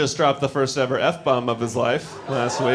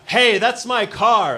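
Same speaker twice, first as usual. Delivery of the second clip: mock confront; 7 semitones higher, 3 dB louder, slower than usual. Confronting car thief on stage.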